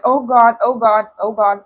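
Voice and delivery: mock panicked Oh God, loud; nervous loud outburst. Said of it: "but you're like".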